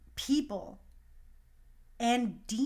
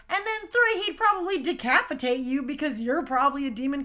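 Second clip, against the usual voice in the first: emphatic build; 3 semitones higher, 5 dB louder than usual. Retold or imitated. Building to a punchline about demons.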